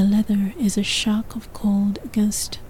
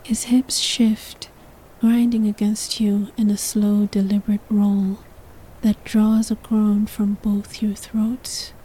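whispered narration. A narrator's reading. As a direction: whisper the story close to the mic. Whispered throughout.

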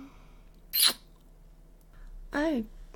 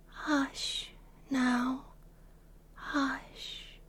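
soft shush; 7 dB quieter, much slower than usual. Acted. Shushing him soothingly.

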